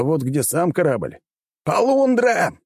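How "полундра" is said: high, loud alarm yell. A narrator's reading. Waking up on the alien ship, he yells in alarm. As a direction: bellow it out like a sailor sounding the alarm. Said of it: "заорал я".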